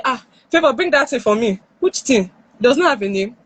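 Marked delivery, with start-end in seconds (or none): 0.0-1.6 vague command. Shown as a demonstration. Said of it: "Don't just say".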